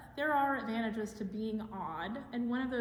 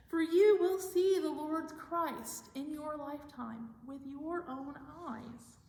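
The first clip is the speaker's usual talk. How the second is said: slow, raised proclamation, fading at the end; voice calling out; 5 semitones higher, slower than usual. Acted. A voice promises Simeon he will see Christ, slow lifted proclamation. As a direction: proclaim it slowly and high, then soften. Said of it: "he heard a voice call out to him".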